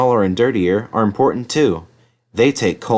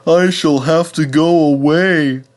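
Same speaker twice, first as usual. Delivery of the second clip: Henry the engine; 6 semitones higher, 4 dB louder than usual. Acted. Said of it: "thought Henry sadly".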